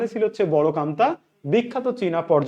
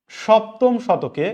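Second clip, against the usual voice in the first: slow dictation; 4 semitones higher, much slower than usual. Shown as a demonstration. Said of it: "teacher dictating to students".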